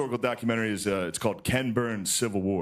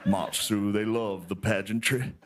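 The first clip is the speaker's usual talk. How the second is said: put-on Southern old man; 5 semitones lower than usual. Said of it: "he's like".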